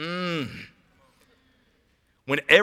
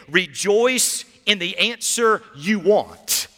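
preaching at full force. Acted. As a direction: drive it home like a revival preacher.

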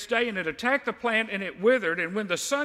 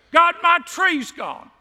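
high, loud, slow hammed-up wail over a dead tree; mock lament; 11 semitones higher, 9 dB louder, slower than usual. Man lifting hands to God over his tree, mock wail. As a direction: ham up the grief, drawing it out. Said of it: "do you lift your hands to God and say".

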